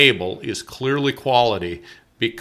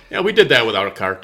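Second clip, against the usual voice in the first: laughing boast; 3 semitones lower than usual. Retold or imitated. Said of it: "a little bit of".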